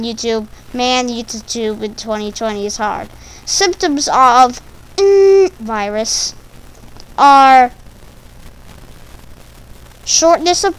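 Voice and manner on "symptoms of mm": censor hum. Acted. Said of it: "I can't even call it by its own name".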